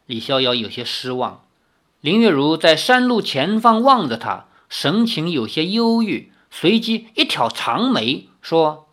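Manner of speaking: expressive, measured novel narration; story narration. A narrator's reading. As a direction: read the tale aloud with lively intonation.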